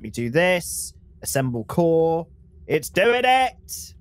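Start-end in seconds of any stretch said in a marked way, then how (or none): 2.7-3.9 excited. Real, not acted. Machine starts working in game.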